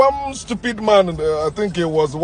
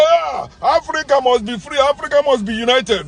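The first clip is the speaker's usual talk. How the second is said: sneering imitation of a rally shout; mock slogan; 6 semitones higher than usual. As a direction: ham up their empty patriotic cry. Mocking pretenders' slogans.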